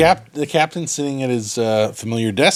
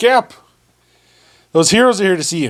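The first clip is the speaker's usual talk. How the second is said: mocking, sarcastic, pitched-up voice; 5 semitones higher than usual. Voicing a guard announcing heroes to the captain: sarcastic guard voice. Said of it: "he kinda says it, like, sarcastically".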